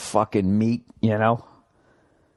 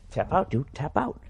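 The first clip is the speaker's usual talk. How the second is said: muttered tap out; 5 semitones higher, 6 dB quieter than usual. Acted. Telling the demon to give up.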